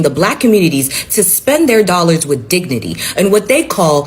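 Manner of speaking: formal newsreader delivery; news anchor voice. Acted. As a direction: read it like a TV anchor. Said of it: "I'ma put on my best anchor voice".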